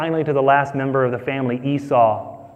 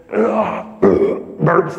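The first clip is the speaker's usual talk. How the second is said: mock burp; 5 semitones higher than usual. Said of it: "he gets up on the table".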